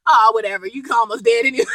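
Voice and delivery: giggling through a put-on dismissive old wife; laughing wife retort. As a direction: brush him off while cracking up.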